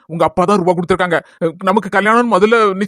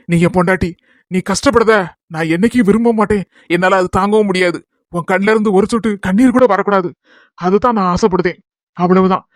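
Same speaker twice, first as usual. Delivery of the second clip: comforting; 3 semitones lower than usual. Acted. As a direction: lower reassuring voice. Husband consoles crying wife. (ஆறுதல் சொல்லும் அன்பான குரல்)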